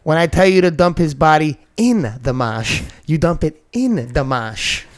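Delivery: mock New England gangster line, leaning on the accent; Departed movie quote, New England accent. Podcast host quoting The Departed over a patron's name, New England accent. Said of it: "it's from The Departed".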